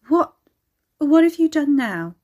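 loud, high exasperation; exasperated demand. A narrator's reading. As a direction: demand it, fed up. Exasperated Carrie confronts chained Ricky.

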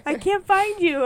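put-on loud, high-pitched child wail; imitating upset niece. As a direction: cry out like a kid missing auntie. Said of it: "She's like".

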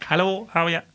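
bad Irish accent. Son greeting his co-host in a bad Irish accent. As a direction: do a poor mock-Irish greeting. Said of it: "I'm shit at Irish accents".

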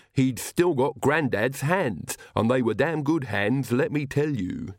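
lightly voiced servant, earnestly justifying himself; Igor, defensive servant. Servant defends family organ tradition, earnest light character voice. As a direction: explain it with deliberate, proud conviction.

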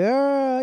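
high drawn-out "oh"; mock crowd "oh". Vlogger imitating everybody's reaction, mock crowd "oh". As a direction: swoop up high on a long "oh". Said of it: "everybody's like".

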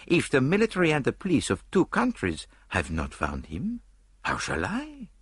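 high, lilting Belgian-French detective; prim little Belgian sleuth musing aloud; Poirot voice. Acted. Poirot doubting to Hastings, in a high Belgian lilt.

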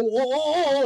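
high sing-song oh oh oh; mock scolding. Puppet scolding the audience, high sing-song. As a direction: wag a finger with your voice. Shaking finger at crowd.

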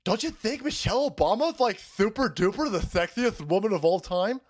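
mock fawning TMZ reporter; gushing reporters. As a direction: fawn over her like a paparazzo. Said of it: "they're like".

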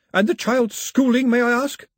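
put-on high, loud cold old lady; cold grandmother. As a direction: ask it icily.

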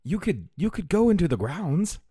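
high-pitched, hesitant servant voice; tentative butler. Acted. Butler offers a meek compromise.

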